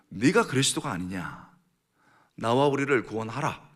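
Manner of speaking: loud, mocking challenge; jeering. Criminal on the cross taunting Jesus, jeering. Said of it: "비꼬는 말이지요".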